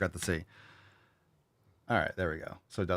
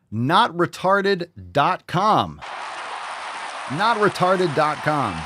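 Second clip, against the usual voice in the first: slogan shout; 7 semitones higher, 4 dB louder, much slower than usual. Acted. Announcing the website slogan.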